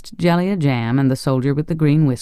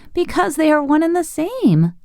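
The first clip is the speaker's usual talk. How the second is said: laughing merrily. A narrator's reading. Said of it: "now laughing merrily".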